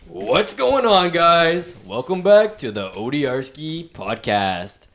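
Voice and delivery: slow, drawn-out radio host intro. Shown as a demonstration. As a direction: announce it like a radio DJ. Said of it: "I wanna get my radio voice".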